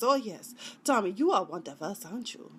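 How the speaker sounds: put-on quick, off-target Serbian accent; attempted Serbian accent. Sidekick telling Tommy he's one of them, shaky-aim Serbian accent. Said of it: "That's more Asian than Serbian".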